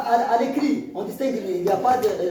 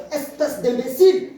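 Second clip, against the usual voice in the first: mock anger; 3 semitones higher, 4 dB louder than usual. Shown as a demonstration. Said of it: "ça exprime la colère".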